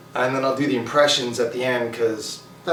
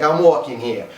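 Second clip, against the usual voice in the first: put-on quicker, unraised quote in Brooklyn accent; New York accent; 4 dB louder than usual. Vlogger quoting guys in movies, plainer New York accent. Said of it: "the guy's always like".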